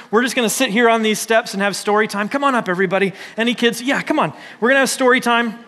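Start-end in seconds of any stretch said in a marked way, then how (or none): none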